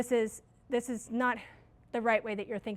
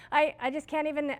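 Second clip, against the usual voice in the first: mock exasperation; 4 semitones higher, 4 dB louder than usual. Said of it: "I'd be like".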